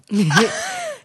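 odd croak of a laugh. Real, not acted. Friend trying to conceal her laugh, croaking. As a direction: let a croak slip out as laughter. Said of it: "You croaked".

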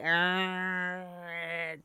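long droning "uhhh"; voiced imitation of a revving chainsaw; imitated chainsaw.

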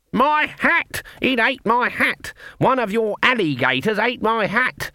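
furious witch shouting at the alligator; outraged shout. A narrator's reading. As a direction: bellow about the stolen hat. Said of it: "something to shout about".

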